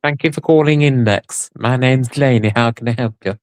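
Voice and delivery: mock the friend's old customer service voice; a hint of a polite call centre agent. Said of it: "This is her index voice".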